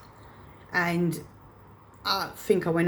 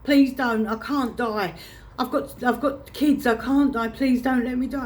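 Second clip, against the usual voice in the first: mum's panicked pleading, retold in a higher pitch; retold freak-out; 5 semitones higher than usual. Daughter retelling mum begging the ambulance crew for life, freaking out. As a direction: imitate her begging, higher and urgent. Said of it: "she freaked out".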